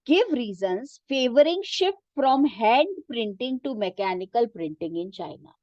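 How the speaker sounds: reading a textbook sentence very slowly for students to follow; teacher reading the book aloud, slow and measured. Shown as a demonstration. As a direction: dictate it slowly, word by word. Reads question aloud.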